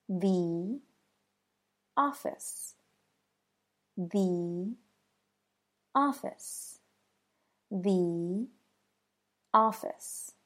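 "The office" with "The" said as "thee"; thee before a vowel. Shown as a demonstration. Teacher modeling the phrase three times, "The" as thee. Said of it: "So that should sound like this".

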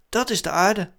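hoog antwoordend stemmetje; Lunar. A narrator's reading. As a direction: leg uit als maanautootje. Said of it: "antwoordde Lunar". (hoge personagestem)

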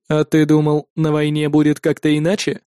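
low, detached machine voice; a calm android asking coolly; synthesized voice. Acted. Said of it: "спросил синтезированный голос".

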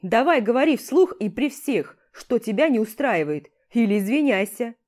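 loud challenging demand; angry demand. Acted. Hero demands the rival speak up or apologize, loud demand. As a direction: press him hard to speak up.

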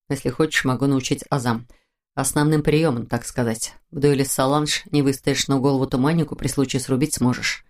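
relaxed male character, offering help; lightly voiced hunter. (слегка пониженный голос охотника)

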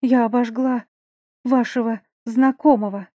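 out of breath. Acted. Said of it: "Задыхаясь".

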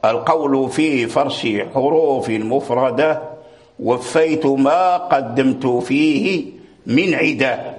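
slow, measured reading of a poem line; verse recitation. Acted. Teacher reciting the poem's verse to his students, slow and measured. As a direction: draw each word out like reciting verse. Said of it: "ولهذا قال رحمه الله".

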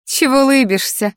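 the red-haired rival growling at Melissa, snapping; growled. Acted. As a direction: bite the question out at her. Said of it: "рыкнула красноволосая".

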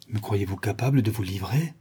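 soft question with a smile in it; gently coy reproach; charming smile. A narrator's reading. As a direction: ask sweetly, lilting up at the end. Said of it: "avec un charmant sourire".

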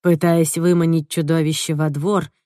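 ordinary delivery

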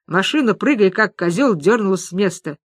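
ordinary delivery

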